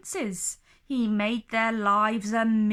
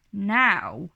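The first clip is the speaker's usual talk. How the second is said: dragon voice; 2 semitones lower, 5 dB louder than usual. Acted. Dragon menacing.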